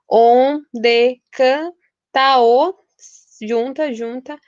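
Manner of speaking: slow scansion, vowels joined; escansão lenta. Shown as a demonstration. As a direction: stretch it out, gluing "canta o" together. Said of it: "pela segunda regra, juntar vogais". (devagar, juntando "canta o" numa sílaba só)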